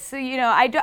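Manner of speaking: ordinary delivery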